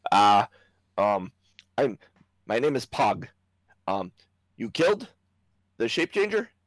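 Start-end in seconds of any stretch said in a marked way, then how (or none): 1.7-6.4 little gnome character voice, pitched higher. Voicing a gnome in armor who runs down the stairs: little armored gnome character. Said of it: "this little gnome in this set of armor".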